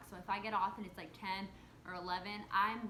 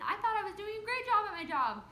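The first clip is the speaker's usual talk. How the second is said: indignant outburst; 12 semitones higher, 9 dB louder than usual. Real, not acted. Indignant about being called bad worker.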